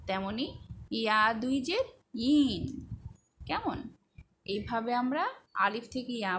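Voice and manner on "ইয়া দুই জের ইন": rising জের, then falling ইন; drawn-out ইন after the spelled letter; spelling recitation. Shown as a demonstration. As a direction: recite ইয়া দুই জের, pause, sound out ইন. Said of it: "সবগুলোর পরেই ইন যুক্ত হবে".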